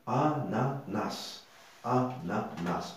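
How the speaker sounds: "ananas" slowly, in separated syllables; slow teacher's breakdown of "ananas". Shown as a demonstration. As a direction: stretch out "ananas" so each syllable is clear. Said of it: "avec cette façon-là".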